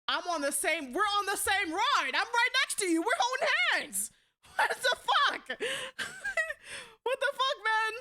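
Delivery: cracking up in disbelief while talking; laughing disbelief. Real, not acted. Reacting to photo, laughing.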